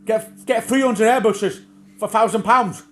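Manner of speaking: high, loud crone retort; mock crone, high and loud; imitating old crone. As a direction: bark it back like the batty shop lady. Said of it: "'cause she's bonkers, she might say".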